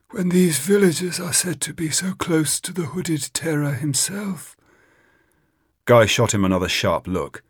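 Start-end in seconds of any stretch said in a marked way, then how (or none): 0.1-4.6 high, conspiratorial whisper; sly whisper. Acted. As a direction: lean in and hint slyly. Witch-finder hinting slyly, confidentially.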